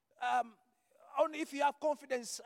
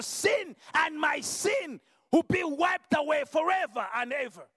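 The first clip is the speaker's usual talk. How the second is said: full-force preaching. Acted. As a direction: proclaim it to the whole church.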